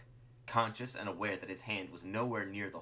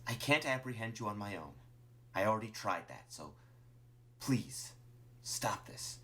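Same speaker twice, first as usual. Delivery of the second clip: halting plea thinning toward a breath; earnest appeal, breaking into short pauses; pleading Martlet; 2 semitones higher than usual. Acted. Martlet begs Clover to stop, pleading.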